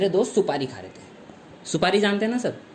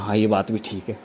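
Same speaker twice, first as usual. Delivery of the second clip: lower dopey friend; 10 semitones lower, 4 dB quieter than usual. Retold or imitated. Friend agrees, odd voice.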